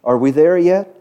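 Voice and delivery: mock whining complaint; a little whiny. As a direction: whine it like a tired traveler. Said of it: "starts to get a little whiny".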